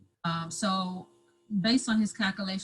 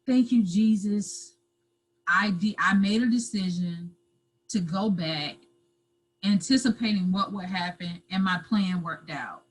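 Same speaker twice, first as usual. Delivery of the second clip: crying; 4 dB louder than usual. Retold or imitated. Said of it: "I'm boohoo crying".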